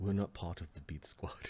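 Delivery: hushed, in-character whispered aside. Voicing a character who answers during a sneak up the stairs: whispering in character. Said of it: "is what he whispers to Elker".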